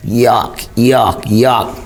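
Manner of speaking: grossed-out sister, lightly voiced; mild revolted yucks; disgusted spitting. A narrator's reading. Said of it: "Norva spat".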